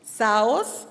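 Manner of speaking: Saos accented on the O, ending in a rise; stress on O of Saos. Shown as a demonstration. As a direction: lift the O of Saos, loudly. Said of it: "con acento en la O".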